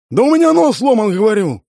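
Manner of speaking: high, loud furious yell; an injured man yells at his boss; yelling back. A narrator's reading. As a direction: shout back over the boss. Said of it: "заорал я в ответ".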